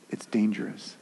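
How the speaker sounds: a dropped, breathy whisper. Real, not acted. Preacher warning the congregation about sin, in a whisper.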